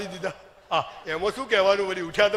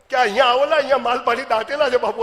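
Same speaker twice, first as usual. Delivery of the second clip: laughing mock invitation; 4 dB louder than usual. Mock TV invite to hidden treasure.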